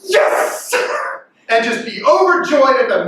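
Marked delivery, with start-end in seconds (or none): 0.0-0.7 mock cheer. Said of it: "look at your cereal and go".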